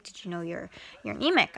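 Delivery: mildly alarmed doctor, pitch jumping on anemic; retold freaking out. Doctor calling a patient with results, mock freak-out. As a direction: imitate a worried doctor, voice leaping up at the end. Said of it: "he was freaking out".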